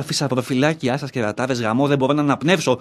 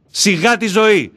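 slow scoff; 5 semitones higher, 5 dB louder, slower than usual. Acted. Scoffing at his life.

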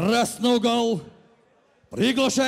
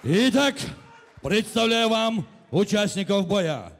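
booming stage introduction; 3 semitones lower than usual. Acted. Announcer opens introductions.

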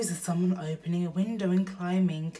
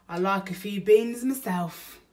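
burglar voice; 3 semitones higher, 8 dB louder than usual. Acted. Bill voiced in read story.

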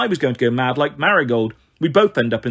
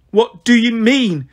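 Marigold pleading; 8 semitones higher, 6 dB louder, slower than usual. A narrator's reading. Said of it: "she repeated again and again".

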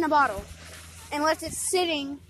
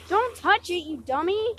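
scolding yell; 5 semitones higher, 3 dB louder than usual. Real, not acted. Scolding friend at the beach.

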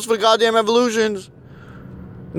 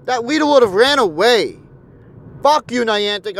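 usual speaking voice

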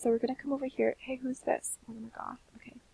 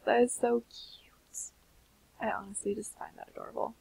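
cooing whisper; 5 dB quieter than usual. Real, not acted. Cooing at the piano scene.

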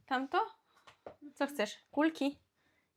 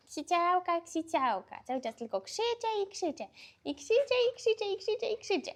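put-on higher playful baby voice, rising on each "krzyczę"; voicing the baby; 7 semitones higher than usual. Mother speaking for her screaming baby girl, high playful baby voice. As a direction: speak for the baby in a squeaky mock complaint.

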